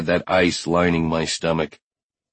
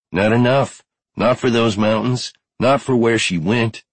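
higher-pitched, insistent argument; urgent objection; 5 semitones higher than usual. Acted. Finn warns Brody off the mountains, urgent objection. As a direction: argue urgently to talk him out of it. Finn argues against the ride.

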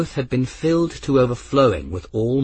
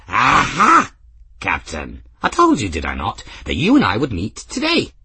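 put-on triumphant old man; 3 semitones higher, 4 dB louder than usual. Ferris to the captain, lightly voiced gleeful old man. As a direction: crow over being proved right, lightly voiced.

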